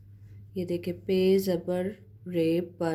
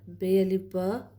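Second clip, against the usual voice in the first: slow, each letter name spelt out; a slow teacher's spelling drill; spelling out slowly. Shown as a demonstration. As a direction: spell बे अलिफ ब one sound at a time, slowly. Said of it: "ऐसे ही पढ़ेंगे".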